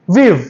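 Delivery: We've said as one short clipped sound; contraction demo. Shown as a demonstration. Teacher models We've as the short form of we have. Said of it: "sound को short करना है इधर".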